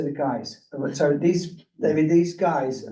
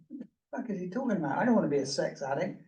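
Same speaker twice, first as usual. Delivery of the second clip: incredulous inner thought; 2 semitones higher, 5 dB quieter, faster than usual. Retold or imitated. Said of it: "I'm thinking".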